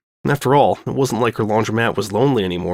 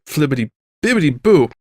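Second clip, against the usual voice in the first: silly singsong; 3 semitones higher than usual. Real, not acted. Silly nonsense after stumbling.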